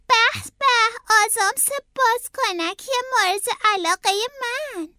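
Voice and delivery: high, gleeful character voice; delighted rabbit. A narrator's reading. Howard finding his favourite gum, high delighted voice. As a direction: relish the treat in a rabbit's voice.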